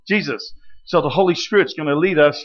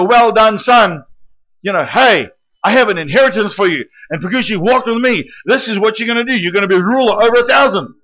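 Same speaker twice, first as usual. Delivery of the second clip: Father's praise; 4 semitones higher, 3 dB louder than usual. Acted. Father praising son, louder.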